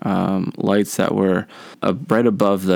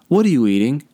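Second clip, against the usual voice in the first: lightly imitated teacher, higher pitch; questioning teacher; 5 semitones higher, faster than usual. Teacher questions a pupil caught eating in class, lightly imitated questioning. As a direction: put on a teacher's pointed question, pitched up a little.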